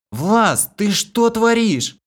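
high, loud shocked cry; shouting. A narrator's reading. Stunned Kira shouts at Vlas mid-fight. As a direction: shriek at him in disbelief. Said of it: "крикнула обалдевшая Кира".

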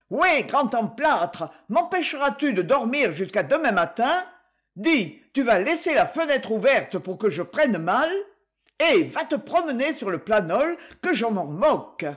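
lightly voiced angry wife scolding from bed; furious scolding. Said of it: "la voix furieuse de Rosette".

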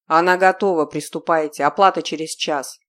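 loud businesslike commands; curt loud orders. Acted. Sergey telling the men to start, curt and loud. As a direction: hand her over like goods.

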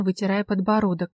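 plain reading voice

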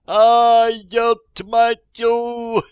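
high pained yell, dragged out slowly; крик боли. A narrator's reading. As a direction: scream it as the scope smacks your eye. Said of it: "заорал подполковник". (пронзительный вопль от боли, протяжно)

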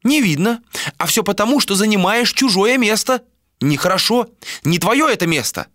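put-on high old seer's voice; old woman voice. A narrator's reading. Narrator voices blind old seer.

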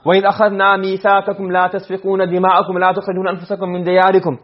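rapid recited verse; quick Arabic recitation; fast Quran recitation. Shown as a demonstration. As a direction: rattle off the verse from memory at speed. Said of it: "Remember I told you?".

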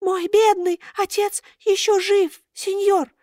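high thin pleading puppet voice. A narrator's reading. Buratino pleads with Karabas, high thin voice.

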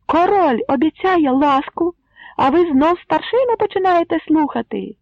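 loud high reproachful yell; angry shout. A narrator's reading. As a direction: scold the crowd fiercely. Greybeard continues shouting. (дядько гнівно дорікає юрбі)

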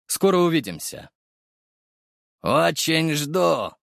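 open greed. A narrator's reading. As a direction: drag it out, hungry for the money. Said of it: "неприкрытая жадность".

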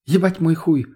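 high, loud outraged protest; indignant. Acted. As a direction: burst out in indignation. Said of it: "возмутилась Лена".

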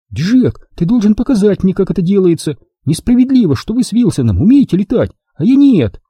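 put-on high, complaining girl's wail; whining lament. A narrator's reading. Mia complains she alone cannot fly, whining lament. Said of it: "запричитала она".

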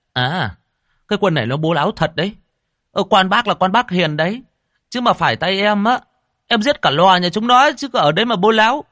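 high, loud indignant rich man; outraged landlord blustering; angry rich man. A narrator's reading. Rich man rages at the greedy monk, high and loud.

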